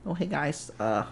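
put-on podcast host voice; hammed-up host greeting; fake voice. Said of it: "fake voice".

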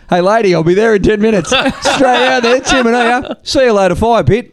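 put-on a kid who just spotted a free prize; excited rush. Telling mates about the free chimenea, gleeful.

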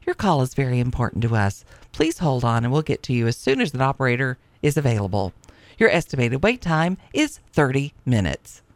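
automated phone hold voice; phone menu voice. Pretend. Mock 911 hold recording.

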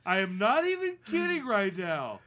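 high, loud nagging; shrill-free but high exasperated scolding. Acted. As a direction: scold him for farting. Scolding about fart.

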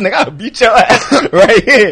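laughing mock threat. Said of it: "Gabe Brown said".

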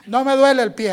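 mildly hammed-up insistence; defiant retort. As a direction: answer back firmly, a touch loud. Acts out his own defiant answer.

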